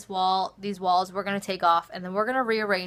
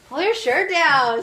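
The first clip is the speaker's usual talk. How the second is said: louder, higher, slower order; louder firm repeat; 7 semitones higher, 7 dB louder, slower than usual. Real, not acted. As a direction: say it again, firmer and louder.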